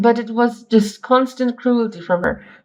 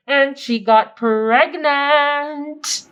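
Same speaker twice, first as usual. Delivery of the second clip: stunned pregnant; 4 semitones higher, much slower than usual. Real, not acted.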